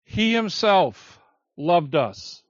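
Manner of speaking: slow, with weight on "himself"; he HIMSELF loved us, slowly and deliberately; stress on himself. Shown as a demonstration. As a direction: lean hard on "himself". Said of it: "It's emphatic".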